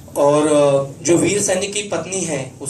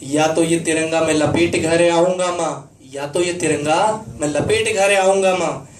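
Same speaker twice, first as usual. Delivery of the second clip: declaimed patriotic verse; rousing stage recitation as a brave soldier; soldier son's reply. Acted. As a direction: vow to a mother in driving, rhythmic lines. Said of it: "वो बेटा वीर सैनिक अपनी माँ को जो जवाब देता है".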